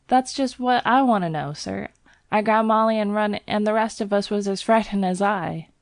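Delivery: puzzled Cockney lad; Cockney bell boy. Acted. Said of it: "Thomas's Cockney dialect".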